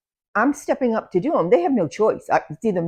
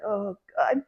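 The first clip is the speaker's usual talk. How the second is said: eye-rolling exasperation; 6 dB quieter than usual. Retold or imitated. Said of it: "they're all rolling their eyes like".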